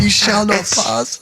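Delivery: put-on Gandalf line in Danish accent; slow, stagey Danish-accented wizard. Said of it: "Wait, in a Danish accent".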